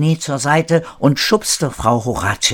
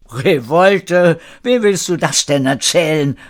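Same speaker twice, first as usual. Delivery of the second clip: louder, higher amused exclamation; calling out laughing; 6 semitones higher, 5 dB louder than usual. A narrator's reading. René mocking the announced revolt, calling out amused. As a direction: scoff aloud with a touch of laughter. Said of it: "rief René lachend".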